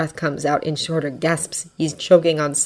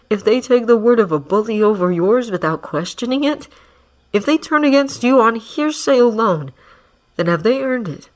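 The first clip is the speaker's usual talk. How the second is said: smooth manipulative villain. Acted. Villain speaking to captive.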